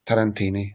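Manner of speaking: "Tarantini" stressed on the second-last syllable; stress near the end. Shown as a demonstration. Teacher showing Italian word stress, "Tarantini" stressed on "ti". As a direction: lean on the "ti" in "Tarantini". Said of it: "the third or the second syllable from the end".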